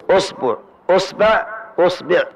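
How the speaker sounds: أصبع said with u on hamza, usbuʕ and usbeʕ; damma on hamza. Shown as a demonstration. Teacher lists the readings of أصبع with damma on hamza. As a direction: read أصبع each time with u at the start. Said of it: "ضم الهمزة".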